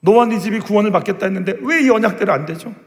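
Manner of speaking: high, loud, pleading questions; frustrated plea to God. Acted. Believer asking God why His promises fail, frustrated pleading. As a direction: cry out your frustration to heaven. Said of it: "그 답답함".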